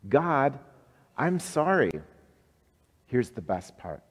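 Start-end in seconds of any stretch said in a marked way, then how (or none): 0.1-1.9 bright call-and-response. Shown as a demonstration. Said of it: "Say that with me".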